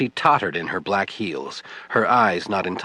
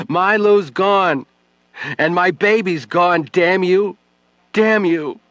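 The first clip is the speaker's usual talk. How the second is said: building to a near scream, much higher and louder; anguished rage; 9 semitones higher, 6 dB louder than usual. Acted. Widow mourning husband and baby, raging at Webb. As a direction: let the grief crack into fury.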